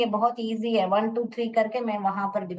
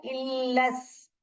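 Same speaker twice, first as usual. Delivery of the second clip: slow syllable reading; 4 dB quieter, much slower than usual. Shown as a demonstration. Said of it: "scoop करके पढ़ूंगी".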